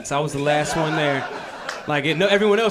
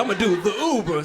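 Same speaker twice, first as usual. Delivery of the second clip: put-on excited old dad. Dad telling son his new plan, eager old-man voice. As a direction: imitate dad proudly announcing the Uber. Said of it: "He's like".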